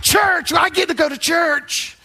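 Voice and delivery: put-on playful child's happy yell; excited kid shout. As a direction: cheer it out like a thrilled kid. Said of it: "They're screaming out".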